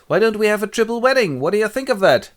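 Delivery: high, loud jolly proposal; enthusiastic Duke. Acted. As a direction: pitch the idea with gusto. Duke proposes triple wedding.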